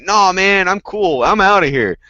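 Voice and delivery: high, loud laid-back bear backing off; mock casual bear. Bear voiced backing off after the punch, high easygoing. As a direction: play the bear, chill and retreating.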